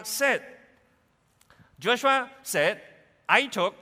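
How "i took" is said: voice of God. Acted. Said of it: "as God".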